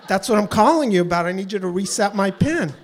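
exasperated. Retold or imitated. Caller repeating the request to a phone agent, exasperated. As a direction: push back at someone not listening.

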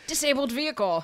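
brisk radio traffic announcer voice; hammed-up radio traffic bulletin; mock traffic report. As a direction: read it like the news on the ones.

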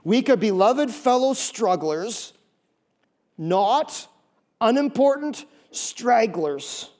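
slow dictation; said slowly. Shown as a demonstration. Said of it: "I'll say it slow".

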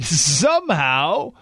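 slow, laughing repeat of Somehow; mocking laugh. Shown as a demonstration. Host rereading a Post line to listeners, mocking laugh. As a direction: savour Somehow with a scornful chuckle. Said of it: "I love that line".

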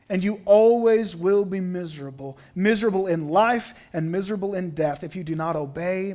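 mildly stern pulpit warning; emphatic acted preacher's admonition. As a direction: pronounce doom on a lone listener. Acted preacher warns a young man.

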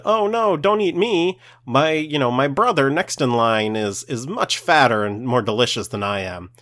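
high, frantic begging goat voice; pleading goat. Acted. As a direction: squeal for mercy, selling out your brother. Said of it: "and they said".

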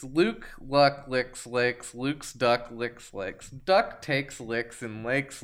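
slow, careful tongue twister; tongue twister reading. Shown as a demonstration. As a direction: sound out each word slowly. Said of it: "something it can say".

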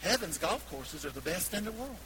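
imitating Nana's South Carolina accent. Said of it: "do my best South Carolina accent".

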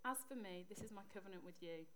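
measured, even Bible reading voice; scripture reading. Acted. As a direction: read the passage out plainly and steadily. Reads a Bible passage aloud.

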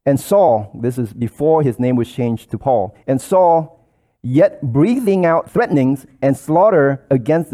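declaiming the Bible passage; scripture reading. Acted. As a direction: read the verse with mounting force.

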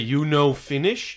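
slowly spelled-out question; without the accent. Shown as a demonstration. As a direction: say it drawn out, dropping the accent. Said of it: "not gonna have to do the accent".

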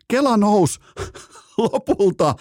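high, slow rising call; excited. Real, not acted. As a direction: build it like a comeback moment. Excited hockey recap. (innostunut kuvaus)

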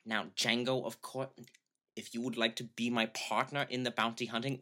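lightly voiced, courteous German-accented offer; Christoph Waltz. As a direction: propose a partnership in measured German-accented English. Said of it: "You could hear, like".

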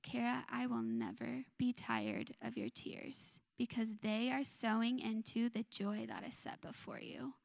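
soft, tender reassurance; gentle divine voice. Retold or imitated. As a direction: comfort her softly as God. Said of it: "the Lord so gently was just like".

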